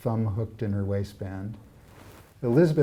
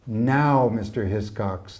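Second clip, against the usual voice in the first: a clipped call, louder on Now; sharp snap; 3 dB louder, slower than usual. Acted. Old housekeeper scolds a server, sharply. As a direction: bark at the servant. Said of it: "the woman snaps".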